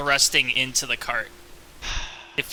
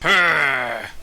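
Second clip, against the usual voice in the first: purr; 5 dB louder than usual. Acted. Acting the creature's satisfied noise.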